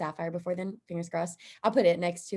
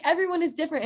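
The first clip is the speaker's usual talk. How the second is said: higher, delighted voicing of mom; mother's wonder, retold; 10 semitones higher, 3 dB louder, much faster than usual. The speaker voicing her mother at the event, higher and delighted. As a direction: sound like mom discovering it.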